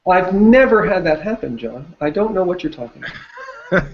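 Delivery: joking denial that breaks into a laugh. Real, not acted. Client jokingly denies ever mistiming a question, laughing. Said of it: "I'm laughing 'cause I did this".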